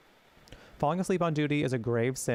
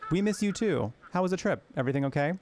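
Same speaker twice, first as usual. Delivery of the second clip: wife's voice; 5 semitones higher, faster than usual. Acted. Wife talks to husband.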